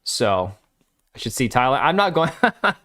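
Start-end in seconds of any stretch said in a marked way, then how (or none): 1.8-2.7 breaking into a laugh mid-sentence; refuse, then crack up higher in pitch; laughing refusal. Real, not acted. Streamer turning down a trip to Thailand, laughing.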